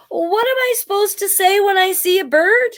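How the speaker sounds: a hint of a confused little dog; storybook dog, lost and puzzled; puzzled dog Woof. A narrator's reading.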